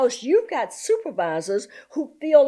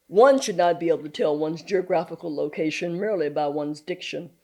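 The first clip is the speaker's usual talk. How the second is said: lower, measured, formal diction; precise, proper teacher; 4 semitones lower than usual. Retold or imitated. Teacher correcting country children's diction, formally proper. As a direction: enunciate like a principled schoolmaster.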